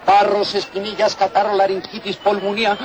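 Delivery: street remedy pitchman spiel; hyped fairground barker. Acted. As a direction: sell the cure to the crowd. Merolico selling miracle remedy.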